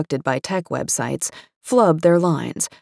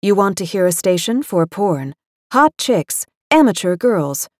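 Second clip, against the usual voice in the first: flat, stilted smart speaker voice; stilted robot monotone; 2 semitones higher than usual. Retold or imitated. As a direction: read it like a stiff machine. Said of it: "Alexa replies in her stilted monotone".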